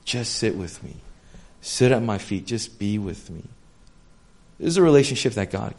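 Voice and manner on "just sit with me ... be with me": gentle whisper. Retold or imitated. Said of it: "He says".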